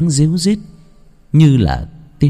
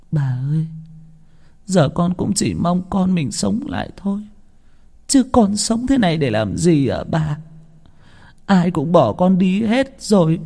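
higher, quiet grieving voice; tearful lament; 8 semitones higher, 3 dB quieter than usual. A narrator's reading. Mother lamenting her losses to the old woman, tearful. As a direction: let the grief spill out softly.

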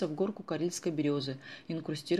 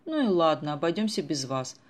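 louder huffy retort; offended; 6 dB louder than usual. Acted. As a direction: snap back, hurt and offended. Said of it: "оскорбилась Даша". (обиженно, с вызовом)

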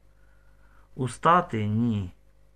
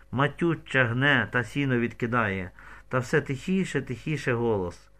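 ordinary delivery, nothing marked

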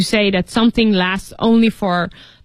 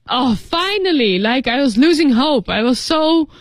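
lively, mildly hammed-up desperation; desperate relief; 3 semitones higher than usual. Shown as a demonstration. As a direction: act out hope returning at last. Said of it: "desperate means like".

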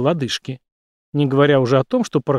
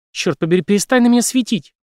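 angry shout; 7 semitones higher, 3 dB louder than usual. A narrator's reading. Jane shouts at blinding light.

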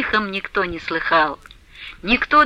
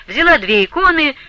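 ordinary delivery, nothing marked

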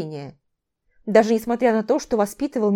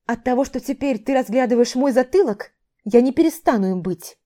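бурча; 3 semitones higher than usual. Acted. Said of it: "пробурчала я".

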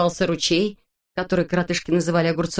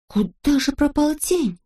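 worried question; 8 semitones higher than usual. A narrator's reading. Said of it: "забеспокоились коротышки".

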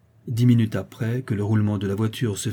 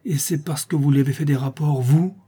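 mildly acted childish anger, rising on vous; through clenched teeth; 5 semitones higher, 4 dB louder than usual. Boy turning on placid Justine, teeth clenched. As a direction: accuse through gritted teeth, pushing the last word high. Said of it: "les dents serrées".

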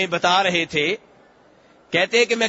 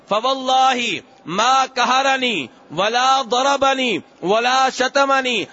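slow, measured recitation of Arabic hadith; a preacher intoning the hadith in Arabic, slowly; 3 semitones higher, much slower than usual. Acted. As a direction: recite each Arabic word slowly and devoutly.

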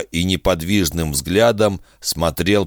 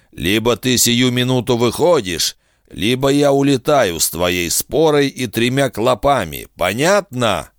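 lightly voiced, higher sly captor; a hint of a smug bargaining villain; sly bounty hunter; 6 semitones higher than usual. Kusaka voiced in narration.

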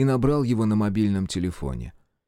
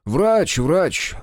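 glib lie; 6 semitones higher, 4 dB louder than usual. A narrator's reading. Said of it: "соврал он, не моргнув".

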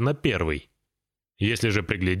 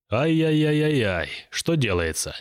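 dismayed wail; 5 semitones higher than usual. Acted. Igorek dismayed by the news.

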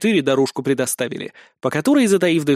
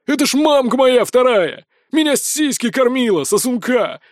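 shameless yelling; 8 semitones higher than usual. A narrator's reading. Giant proudly telling everyone about his nanny, yelling. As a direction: bellow it for the whole camp to hear. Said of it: "орёт Альхак, не стесняясь".

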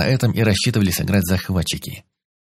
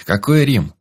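puzzled; 5 semitones higher, 3 dB louder, slower than usual. Acted. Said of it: "Ещё сильнее озадачился Хорёк".

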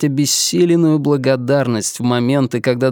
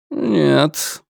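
stern; 2 semitones higher than usual. Acted. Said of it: "строго возразил Деборд".

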